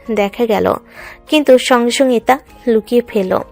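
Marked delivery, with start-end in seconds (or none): none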